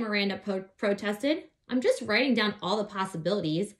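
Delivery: put-on lively read-aloud voice for children; story narration. A narrator's reading. Reading a children's book aloud.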